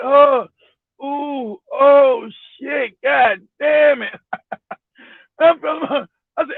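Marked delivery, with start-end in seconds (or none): 0.0-4.1 mock moaning exclamations; imitated moaning. Woman moaning at her disgusted guest, mock moaning. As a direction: moan the words as an imitation, stretching the last. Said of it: "she started moaning and shit".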